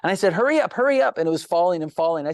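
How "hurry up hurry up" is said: high, urgent call to his son; urgent hurry. Retold or imitated. Father urging his son to catch the falling tree, urgent. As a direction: hurry the boy along, pitched up.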